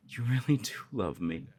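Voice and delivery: a laugh breaking through mid-line; giddy, half laughing it out; laughing in disbelief. Acted. Learning the love is mutual.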